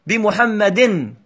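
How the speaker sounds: "بمحمد" drawn out slowly, ending clearly in -in; kasra tanween. Shown as a demonstration. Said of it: "تنوين الكسر". (نطق "بمحمد" ببطء مع إظهار تنوين الكسر)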